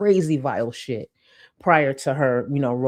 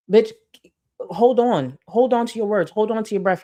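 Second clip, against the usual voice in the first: mocking; 6 semitones higher, 3 dB louder than usual. Real, not acted. Mocking her breathlessness.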